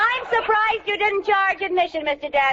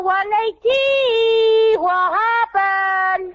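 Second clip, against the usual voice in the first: slow, higher, bewildered; baffled over the scale; dismayed; 4 semitones higher, much slower than usual. Acted. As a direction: stretch it out in dismay. Confused at broken scale.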